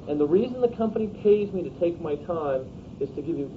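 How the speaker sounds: measured, non-threatening sales close; soft, professional pitch. Shown as a demonstration. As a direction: talk the client through it gently, no pressure. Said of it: "articulate it in a soft and professional".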